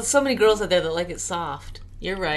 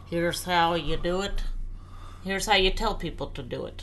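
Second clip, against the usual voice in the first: corporate training video; 5 dB quieter than usual. Pretend. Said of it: "This is my corporate voice".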